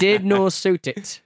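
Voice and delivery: slow, high and loud; emphatic. Pretend. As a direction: punch every word slowly. Mock emphatic verdict.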